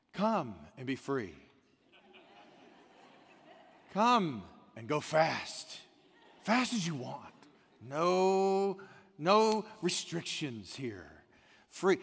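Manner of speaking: lightly voiced, slow luring whisper of the ramp; tempting voice. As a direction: coax slowly, like temptation calling. The highway ramp tempting drivers.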